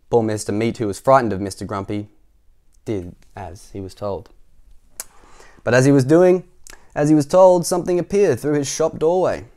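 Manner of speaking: animated, rising to loud suspense; story narration. A narrator's reading. Narrator builds to something in the doorway, excited storytelling. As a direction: build up to the surprise. Reads the picture book aloud.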